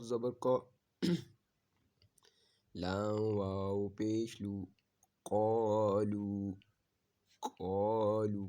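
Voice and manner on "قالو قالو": tutor stressing the heavy ق in قالو, louder; heavy qaaf. Shown as a demonstration. Teacher saying قالو with a thick ق sound. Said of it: "کاف کو موٹا پڑھیں".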